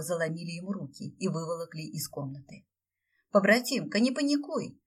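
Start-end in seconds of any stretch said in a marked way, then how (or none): 3.3-4.8 cheeky dragon. A narrator's reading. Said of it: "подмигнул Драго".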